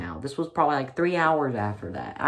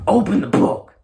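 higher, much louder furious bark; teacher screaming; 7 semitones higher, 10 dB louder than usual. Retold or imitated. Library teacher screaming at the student, full-on shout. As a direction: scream the order at full force. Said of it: "This scream could probably be heard".

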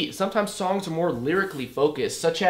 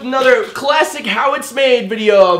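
loud, high hype-man opener; hyped intro voice; 8 semitones higher, 9 dB louder than usual. Acted. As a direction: belt it like a kid's show host. Over-the-top YouTube intro.

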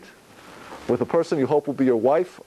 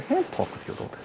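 whisper; 12 semitones higher, 7 dB quieter, faster than usual. Shown as a demonstration. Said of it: "that we whisper".

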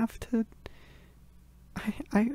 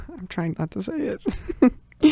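laughing; 4 dB louder than usual. Acted. Laugh heard while talking.

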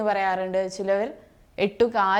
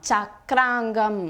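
slow dictation; much slower than usual. Shown as a demonstration. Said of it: "അരയന്നത്തിൻ്റെ പര്യായമാണ്".

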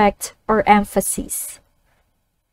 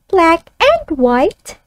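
put-on higher child voice, slow; child echoing; 3 semitones higher, slower than usual. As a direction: echo it back slowly like a pupil. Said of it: "the child reads it back".

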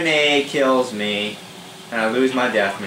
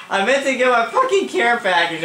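high words through laughter; laughing at himself; 14 semitones higher than usual. Real, not acted. Gamer laughing at his own care package blunder, laughing.

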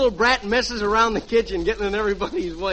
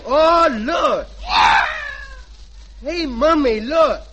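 put-on loud, bright call of a boy showing mom something; excited kid; 5 semitones higher, 3 dB louder, much slower than usual. Junior calling his mother to look, excited shout.

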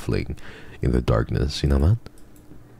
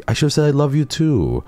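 much higher and louder, sing-song silly; mock squeaky voice; 5 dB louder than usual. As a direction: tease in a squeaky cartoon voice. Mock high lovey voice.

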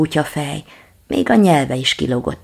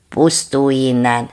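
yap; 2 semitones lower, 3 dB louder than usual. Acted. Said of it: "vakkantott a nagykutya".

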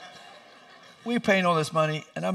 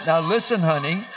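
louder, slowed, half-shouted pleading; reasoning with her; 3 semitones higher, 5 dB louder than usual. Retold or imitated. Husband reasoning with wife in labor, loud slow plea. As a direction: try to talk sense into her. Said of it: "So I tried to talk into reason".

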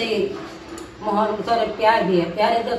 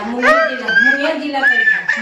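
laughing; 2 semitones higher, 7 dB louder than usual. Real, not acted. Mother-in-law laughing while remembering.

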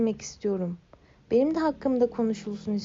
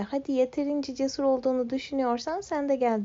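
taunting call; 4 semitones higher, faster than usual. Acted. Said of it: "diye beni çağırır".

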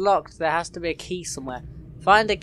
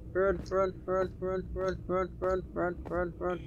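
hushed urgent; 10 dB quieter than usual. Real, not acted. Sneaking away from monster.

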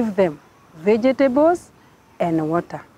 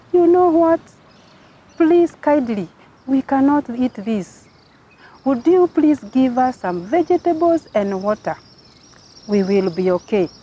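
polite plea; 3 semitones higher than usual. Acted. Daniel politely begs the official.

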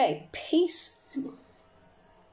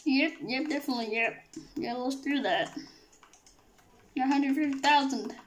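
Kermit the Frog voice. Acted. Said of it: "Gonna be doing a Kermit the Frog voice".

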